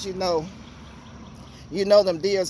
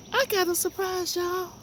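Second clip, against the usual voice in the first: much higher, delighted squeal; excited squeal; 11 semitones higher, 4 dB quieter than usual. Real, not acted. Teasing viewers with a garden surprise, high excited squeal. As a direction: burst out with real joy. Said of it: "Do y'all know how happy I am?".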